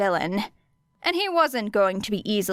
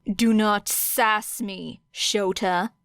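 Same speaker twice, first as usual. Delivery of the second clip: slow, menacing warning; dangerous register; much slower than usual. Acted. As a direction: drag it out as a threat. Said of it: "voice dropped to that dangerous register again".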